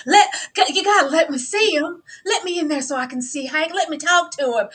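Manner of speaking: put-on Southern accent. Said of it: "Charlotte in that deep South accent".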